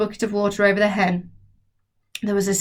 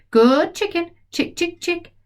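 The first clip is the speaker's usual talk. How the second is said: put-on coaxing boy; 9 semitones higher than usual. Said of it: "George coaxes the hen".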